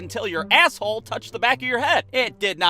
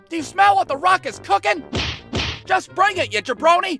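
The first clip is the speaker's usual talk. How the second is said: The Rock catchphrase; 8 semitones higher than usual. Retold or imitated. Kid hollering Rock lines at dog walkers, high hammed-up bravado. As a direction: boom it out like The Rock trash-talking. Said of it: "saying one-liners left and right".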